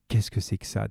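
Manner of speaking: low-voiced mutter, read lightly; between his teeth. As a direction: mutter it through clenched teeth. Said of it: "dit-il entre ses dents".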